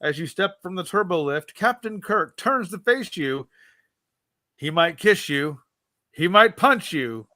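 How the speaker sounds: measured read-aloud narration, voicing the captain's lines lightly; story narration. Host reading a Star Trek gamebook to co-host, storyteller narration. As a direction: read the adventure to the listener like an audiobook.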